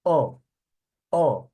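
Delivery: "Un" pushed out loud with a heavy nasal vowel. Shown as a demonstration. Teacher models extra-nasal masculine "Un" for the class. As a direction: exaggerate the nasal "Un" as much as possible. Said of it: "Quanto mais nasal o masculino, melhor".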